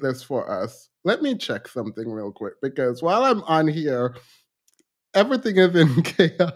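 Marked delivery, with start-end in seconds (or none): 5.1-6.5 breaking into laughter. Real, not acted. Streamer admitting everything is in chaos, cracking up. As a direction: start composed, crack up on the last word.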